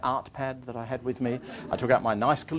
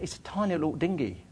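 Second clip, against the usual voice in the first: accidental touch of Cockney, pitched up; Cockney accent; 5 semitones higher, 3 dB quieter than usual. Acted. Traveller pleading with an official, lapsing into Cockney accent. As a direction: protest lightly in a Cockney accent. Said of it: "I did a Cockney accent there".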